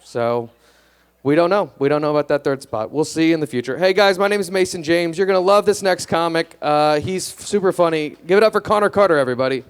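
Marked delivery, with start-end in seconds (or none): 3.8-9.7 higher-pitched, upbeat stage announcement; emcee introduction. Real, not acted. Comic bringing the next act on stage, announcer-style. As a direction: hype the crowd for the next act.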